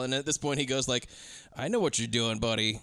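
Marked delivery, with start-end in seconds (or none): 1.6-2.8 imitated low-voiced buddy; knowing, confiding. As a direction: say it low like you're onto someone. Quoting the character's knowing line.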